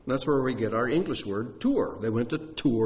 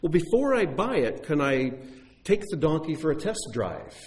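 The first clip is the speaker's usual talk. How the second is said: a hint of a buyer asking, pitched higher; lightly voiced buyer; 5 semitones higher than usual. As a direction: lightly act out a customer's tentative request. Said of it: "another man comes and looks at the donkey and says".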